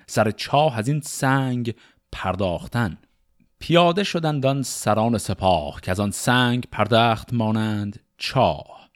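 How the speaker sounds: measured, rhythmic reading of Persian epic poetry; شعرخوانی حماسی; epic verse recitation. Acted. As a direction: recite it like a storyteller of old epics.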